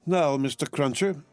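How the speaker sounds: a bustling, eager housekeeper; Miss Pross. A narrator's reading. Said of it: "said Miss Pross".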